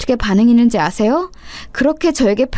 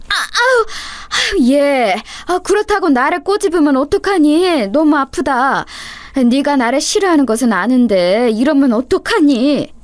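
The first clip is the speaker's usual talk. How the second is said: put-on old mother in pain; 4 semitones higher than usual. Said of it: "꼬집기 시작했습니다".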